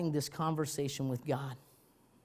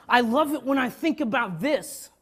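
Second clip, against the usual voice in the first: laughing; 7 semitones higher, 8 dB louder than usual. Real, not acted. Laughs at the idea.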